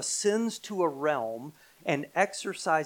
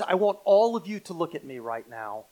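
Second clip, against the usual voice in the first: firm, louder command to listen; commanding attention; 5 dB louder than usual. Acted. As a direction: call the whole room to attention. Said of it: "trying to command your undivided attention".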